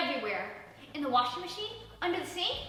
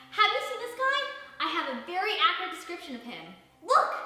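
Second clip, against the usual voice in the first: high, loud, fast and pushy; eager pitch; 6 semitones higher, 7 dB louder than usual. Acted. Sasha shows Jerry the flyer, high eager urging. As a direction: push the flyer in his face.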